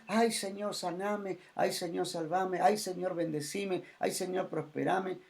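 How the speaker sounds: a lightly mocking plea, ay Señor; mock whiny prayer. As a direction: imitate someone begging God for favors. Mocking people's needy prayers.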